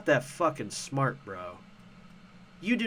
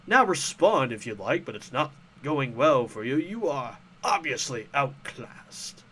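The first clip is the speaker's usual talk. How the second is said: a slow, gloating cartoon villain, lightly hammed; mock villain voice; 4 dB louder than usual. Quoting a commenter's message as a gloating villain. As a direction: savour each word like a smug baddie. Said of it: "why are you talking like a fucking villain".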